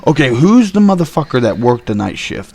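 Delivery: mildly heated retold demand; a touch of anger; retold angry demand. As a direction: act out a pissed-off phone demand, restrained. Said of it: "I was pissed. I was straight pissed".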